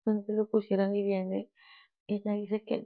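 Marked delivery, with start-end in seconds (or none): 0.0-1.0 slow, drawn-out lament, lightly acted; mock weeping. Mary Magdalene weeping at the empty tomb, mildly acted lament. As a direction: imitate a grieving woman, words stretched. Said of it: "María Magdalena estaba llorando".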